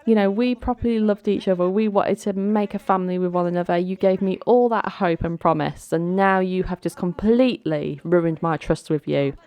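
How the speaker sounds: fast, mildly heated accusation; mock furious groom. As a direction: pour out the hurt in lightly acted anger. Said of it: "Darren is just absolutely furious with her".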